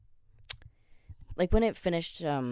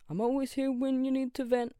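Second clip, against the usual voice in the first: much higher put-on sappy voice; mocking song lyric; 11 semitones higher, 4 dB louder than usual. Mocking the music in Wish, sappy high parody voice. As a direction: parody a syrupy Disney lyric.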